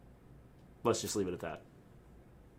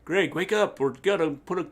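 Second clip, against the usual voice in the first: mock wake-up call; 7 semitones higher, 4 dB louder than usual. Acted crew rousing the wrestler.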